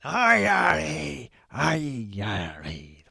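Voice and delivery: very slow, drawn-out attempt at an Irish accent; badly faked Irish accent; failed Irish accent. Shown as a demonstration. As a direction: stretch out each letter in a bad Irish accent. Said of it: "I can't do the I R A accent".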